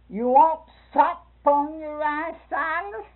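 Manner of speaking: lilting high call across the table; high sing-song question. Retold or imitated. Sister Hall asks Silas at table.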